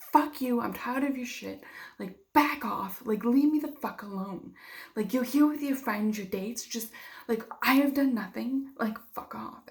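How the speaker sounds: mildly heated retelling of lacing into someone; retold angry outburst. Telling off the ex and friends at prom, retold angry outburst. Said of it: "I was lacing into them".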